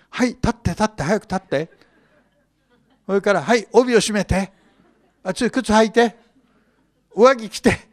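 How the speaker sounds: 子供をせかすように大きめの声で指示; 天使がペテロを急かして次々に指図する; bossy angel. Acted. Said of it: "子供に言ってるようなもんでしょう". (寝ぼけたペテロに子供扱いで命令する天使)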